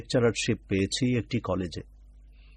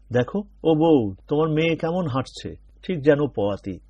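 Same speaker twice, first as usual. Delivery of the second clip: gossiping neighbour; 4 semitones higher, 4 dB louder than usual. Acted. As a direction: draw it out like a prying village wife. Headmaster's wife gossiping to mother.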